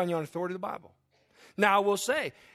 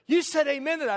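mock-astonished wife, pitched higher; higher-pitched imitation of a disbelieving wife; imitated incredulity; 8 semitones higher, 3 dB louder, faster than usual. Wife challenging the pastor over his amen, incredulous. Retells wife's shocked rebuke to him.

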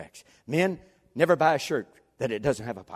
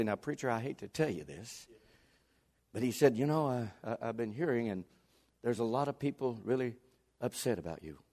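reluctant confiding; 7 dB quieter than usual. Retold or imitated. Church member confiding complaints to his preacher, quiet and reluctant. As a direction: break bad news under your breath, haltingly.

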